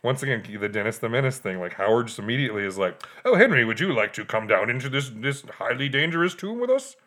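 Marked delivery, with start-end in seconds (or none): 3.2-7.0 chummy invitation. Retold or imitated. Howard invites the boy.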